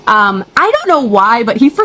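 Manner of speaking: near tears. Real, not acted. Upset rant about cheating husband.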